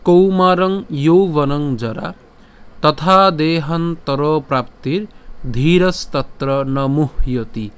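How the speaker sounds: slow, measured recitation of the verse; slow Sanskrit recitation. Shown as a demonstration. Teacher reciting the Gita verse to viewers, slow and measured. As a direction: chant each word of the shloka slowly and clearly.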